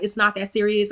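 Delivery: understated, calm retelling. Retold or imitated. Recalls answering him as he cursed her out, calm. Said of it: "and I was very calm".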